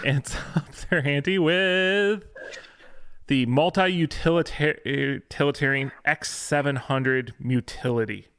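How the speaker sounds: ants up their ante, each word slowed and lifted high; slow careful retake. Real, not acted. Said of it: "careful retake after stumble".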